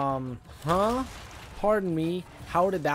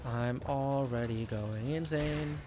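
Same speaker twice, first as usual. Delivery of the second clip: exhausted despair; 6 dB quieter, slower than usual. Real, not acted. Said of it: "I'm gonna lose my mind".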